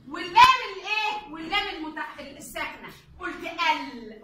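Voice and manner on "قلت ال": drawn-out demo. Shown as a demonstration. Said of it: "قلت ايه؟".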